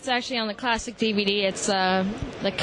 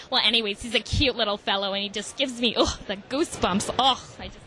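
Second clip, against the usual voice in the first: put-on Yiddish accent. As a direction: play Fran with a Yiddish accent, hammed up. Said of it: "I'm gonna put Fran on the line".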